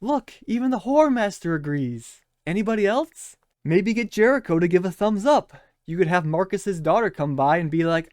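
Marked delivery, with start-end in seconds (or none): 0.0-3.4 deadpan sarcastic cheer; mock fan praise. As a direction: lay on fake worship. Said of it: "he's just like".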